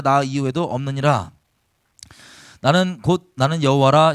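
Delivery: solemn, ringing reading of scripture. Acted. Pastor reads God's words to the congregation, solemn and ringing. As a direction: proclaim the verses firmly to the hall.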